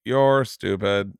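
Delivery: slow, mock computer-voice heckle; Hawkins-like pupil. Pupil heckles the teacher in a sketch, slow mock computer voice. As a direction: lightly imitate a monotone speech synthesizer, drawn out. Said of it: "kids in a wheelchair like Stephen Hawkins".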